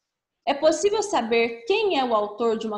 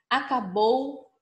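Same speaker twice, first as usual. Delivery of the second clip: slow reading; much slower than usual. Shown as a demonstration. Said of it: "observe a parte destacada".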